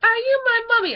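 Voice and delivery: high, loud eerie child impression; high-pitched singsong imitation; creepy gas-mask child. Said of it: "and he's just like".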